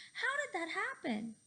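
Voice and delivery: high amazed question; surprised cry. A narrator's reading. Fluffy puzzled by the swerve, high surprised cry. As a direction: ask it stunned. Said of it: "cried Fluffy".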